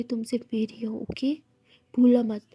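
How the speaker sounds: hushed possessive warning; possessive whisper. Acted. Possessive claim in lover's ear.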